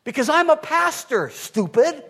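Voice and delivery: joking jab with a laugh. Acted.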